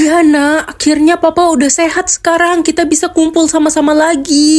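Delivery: happy mother. Acted. Mother telling her child Papa is healthy now, overjoyed. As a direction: celebrate out loud, pitch lifted. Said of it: "tumben hari ini Mama seneng".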